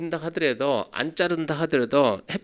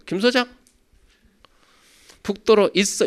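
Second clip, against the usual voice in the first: lisping; 8 semitones higher, 5 dB louder than usual. Retold or imitated. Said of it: "항상 혀 짧은 소리 하죠".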